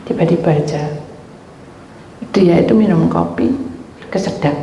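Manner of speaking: ordinary talk, nothing marked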